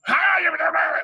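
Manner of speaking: high, loud mock brush-off; hammed-up careless wave-off; dismissive old man. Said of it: "He goes".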